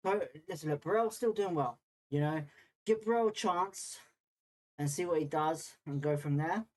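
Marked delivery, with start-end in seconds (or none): 2.8-6.6 slightly breathless, talking between breaths; winded, catching your breath while talking. Real, not acted. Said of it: "I'm out of breath".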